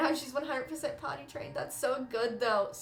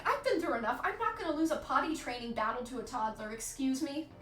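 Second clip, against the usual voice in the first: mock indignant; 2 semitones higher than usual. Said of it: "Hales, you're like".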